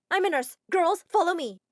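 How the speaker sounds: put-on rally the girls; calling out. Girl takes charge.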